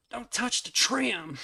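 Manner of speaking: slow, drawn-out North Georgia redneck yell; slow, exaggerated North Georgia drawl; Squidbillies redneck voice. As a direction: bark it like a backwoods Georgia hick. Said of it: "the country singer's Squidbillies voice".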